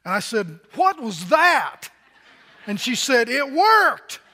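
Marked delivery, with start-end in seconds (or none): 0.8-1.9 laughing. Retold or imitated. Laughing at himself, oil prank. 3.3-4.2 laughing. Retold or imitated. Wife's triumphant reply, laughing.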